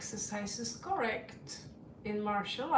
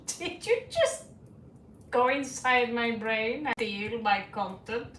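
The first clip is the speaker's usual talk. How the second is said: mock disbelief; 4 dB louder than usual. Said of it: "I was like".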